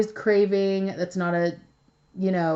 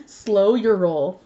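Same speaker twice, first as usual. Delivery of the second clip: Slow your roll said slowly and firmly, savouring it; a chuckling, deliberate Slow your roll; amused repeat; 4 dB louder, slower than usual. Real, not acted.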